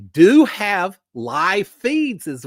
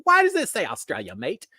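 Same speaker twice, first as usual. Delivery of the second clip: put-on failed Australian accent; 3 semitones higher than usual. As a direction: badly fake an Australian accent. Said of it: "I can't do an Australian accent".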